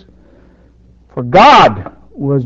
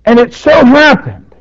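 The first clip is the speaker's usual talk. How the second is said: sarcastic; 6 semitones higher, 3 dB louder than usual. Real, not acted. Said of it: "now I'm just saying that sarcastically".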